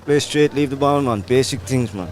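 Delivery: put-on West Indian accent. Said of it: "are you gonna talk to us in your normal accent now".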